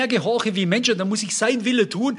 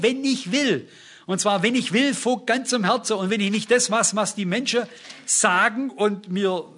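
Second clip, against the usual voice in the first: raised, higher pitched pulpit voice, pressing each point home; full-force preaching; 3 semitones higher than usual. Acted. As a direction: preach it out to the congregation.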